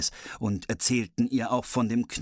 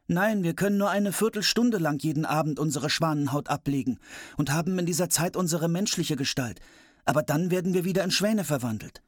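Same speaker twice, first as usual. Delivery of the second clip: brother's voice; 7 semitones higher than usual. Acted. Brothers explain the curse.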